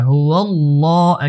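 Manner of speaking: হুয়াল্লাহ with a drawn-out last vowel after a thick l; one-alif stretch. Shown as a demonstration. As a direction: hold the long vowel in হুয়াল্লাহ. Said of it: "এক আলিফ টান হবে". (হুয়াল্লাহ এক আলিফ টেনে)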